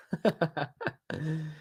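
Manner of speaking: amused burst of laughter; real laugh. Real, not acted. Laughing after calling it a perfect Bruno, amused laugh. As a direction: laugh lightly to yourself.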